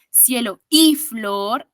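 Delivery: Cielo y flor slowly, the y held as a clear "ee" vowel; vocalic Y. Shown as a demonstration. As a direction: stretch the y in Cielo y flor into a long i. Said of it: "sí tiene sonido vocálico".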